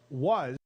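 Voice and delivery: was hit hard and held; stress on was. Real, not acted. Host stressing that Liz Cheney was the third ranking member. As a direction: lean on the word was as the key point. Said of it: "and I stress the word was".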